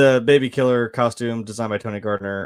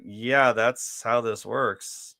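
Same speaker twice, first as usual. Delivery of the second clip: confused cop; much slower than usual. Retold or imitated. Confused cop answers her.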